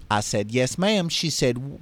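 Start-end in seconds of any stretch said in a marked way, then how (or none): 0.5-1.1 polite Southern reply; lightly voiced Mississippi drawl; Mississippi accent. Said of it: "how's my Mississippi accent".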